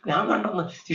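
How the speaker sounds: acted breathless joy, rushing through repeats; excited witness, voice leaping up midway; joyful announcing. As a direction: imitate someone gladly spreading the news. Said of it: "ചിരിച്ചോണ്ട് സന്തോഷത്തോടെ പറയുക".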